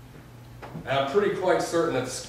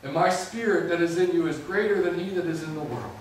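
God's reassurance. Retold or imitated. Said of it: "He said to me".

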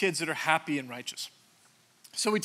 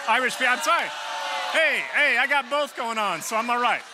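louder, laughing and a bit higher; loud laughing tease; 5 semitones higher, 5 dB louder than usual. Real, not acted. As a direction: laugh it off loudly at your own joke. Laughing loud self-teasing.

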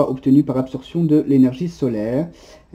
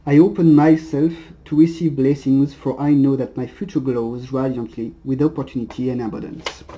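reading English with a French accent. Real, not acted. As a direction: read the English line in a plain French accent. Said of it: "Excusez pour mon accent".

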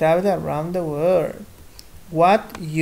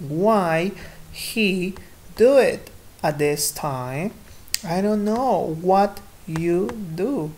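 deliberate, pause-split classroom reading; pronunciation read-aloud. Shown as a demonstration. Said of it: "Voy a empezar con la pronunciación".

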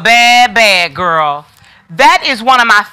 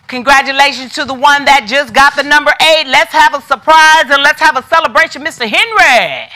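pitched-up, rolling congratulations; celebratory announcement; 4 semitones higher than usual. Real, not acted. Seller congratulating the buyer of number eight, celebratory announcement. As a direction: announce the winner in a sustained excited run.

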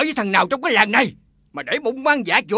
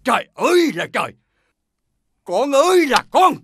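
wailing lament; 2 semitones higher than usual. Acted. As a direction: wail over your ruined child. Father lamenting pregnant daughter.

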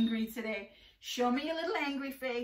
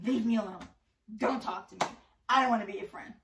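mock grumpy child; 3 semitones lower, 4 dB louder, much faster than usual. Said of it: "walking around saying".

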